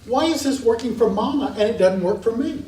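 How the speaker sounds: mildly exasperated little one working it out; lightly voiced baffled toddler; frustrated toddler. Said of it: "it's frustrated and it observes".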